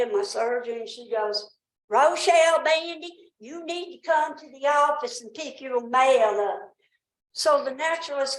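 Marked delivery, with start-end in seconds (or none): 1.9-6.7 mocking voicemail voice. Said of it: "Why is she making fun of you".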